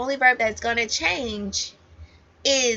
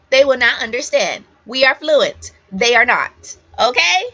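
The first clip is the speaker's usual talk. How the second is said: firm insistence; 6 dB louder than usual. Real, not acted. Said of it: "teacher insisting to students".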